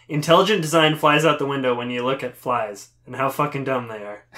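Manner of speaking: exasperated at a fly. Retold or imitated. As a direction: yell at the fly through laughter. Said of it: "Louis says".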